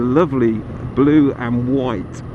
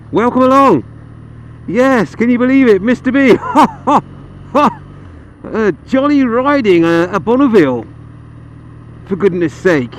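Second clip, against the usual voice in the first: jolly posh voice; 6 semitones higher than usual. Pretend. Rider greets viewers in a mock posh voice. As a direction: play the jolly toff, beaming. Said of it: "shall I stop that voice now?".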